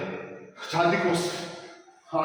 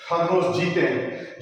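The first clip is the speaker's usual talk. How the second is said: slow emphasis; slower than usual. Shown as a demonstration.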